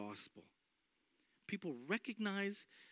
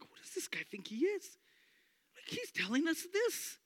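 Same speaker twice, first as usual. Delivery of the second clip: high, incredulous mock outrage; mock religious leaders; 12 semitones higher than usual. Leaders scoffing at the apostles, high and incredulous. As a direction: scoff like an offended elder. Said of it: "They're like".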